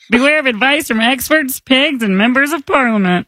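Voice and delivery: frog puppet voice; light croaky puppet; Kermit the Frog. Acted. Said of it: "Kermit the Frog".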